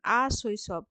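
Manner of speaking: আ শৈশব broken into separate syllables; split into syllables. Shown as a demonstration. Teacher splitting a word for pupils, syllable by syllable. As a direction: say আ, শৈ, শব as separate beats. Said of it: "শব্দের দল বিশ্লেষণ".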